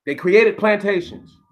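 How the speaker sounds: "created plantations" slow and high; drawn-out emphasis. Real, not acted. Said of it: "do I have to say it like that".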